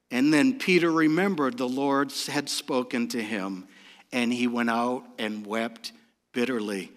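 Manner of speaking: very low, soft and grave; sorrowful hush, pausing before the last word; hushed, sombre reading. A narrator's reading. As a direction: drop right down and let each phrase settle. Solemn reading of Peter weeping.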